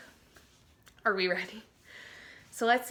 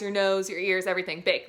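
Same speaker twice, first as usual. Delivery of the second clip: ordinary talk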